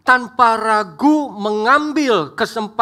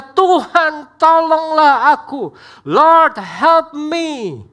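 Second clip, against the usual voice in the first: crying out for help; 6 semitones higher, 4 dB louder, much slower than usual. Acted. Peter's cry retold again.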